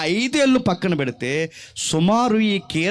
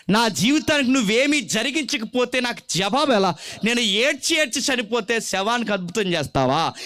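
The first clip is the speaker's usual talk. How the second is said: desperate plea. Acted. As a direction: demand an answer before it's too late. Psalmist pleads with the Lord. (ఆవేదనతో దేవుని వేడుకోలు)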